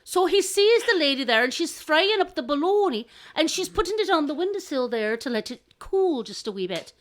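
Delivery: animated, lilting storyteller; storyteller narration. A narrator's reading. Telling how the crow spots bologna, animated narration. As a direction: paint the scene for listeners.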